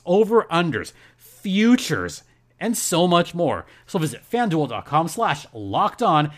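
lively podcast sponsor read. Acted. Host to listeners about a betting sponsor, ad read. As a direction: sell it to the listeners with punched phrases.

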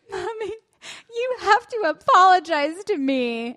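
mock child demanding an apology; imitating a toddler. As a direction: demand it like a bossy three-year-old. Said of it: "and then she goes".

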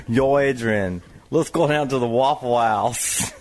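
Stallone impression. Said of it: "try Stallone".

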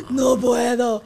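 exasperated cry. Retold or imitated. Exasperated retelling her reaction.

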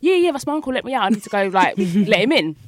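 put-on brushing off the boyfriend's doubt; eager insisting. To her boyfriend, impatiently insisting it's her uncle.

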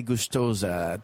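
"gostosa" slowly, as "goosh-TOH-za"; Portuguese pronunciation. Shown as a demonstration. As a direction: demonstrate "gostosa" with sh before the t. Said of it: "you just say".

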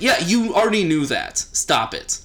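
high-pitched mock exasperation, dropping at the end; exasperated comeback. Host acts out answering a needling German, exasperated. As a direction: cut off someone who is playing dumb. Acted annoyed reply to the German.

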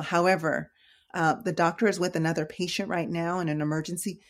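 calm the angry patient down gently; calm reassuring. Shown as a demonstration. Nurse demonstrating how she speaks to a frustrated patient, calm. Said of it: "I speak very calmly".

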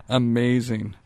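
slow, drawn-out sound bite; soft, stretched-out imitation; Elliot. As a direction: lightly mimic a catchphrase, slowly. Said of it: "These are all sound bites of Elliot".

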